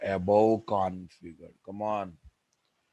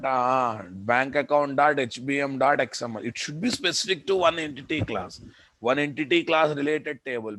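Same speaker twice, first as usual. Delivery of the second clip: exasperated scolding; 4 semitones higher, 4 dB louder than usual. Real, not acted. Teacher scolds students, exasperated.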